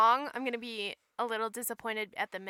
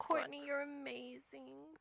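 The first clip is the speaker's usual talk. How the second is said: hushed adoring whisper; 10 dB quieter, slower than usual. Real, not acted. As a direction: whisper it in awe. Whispered fan adoration.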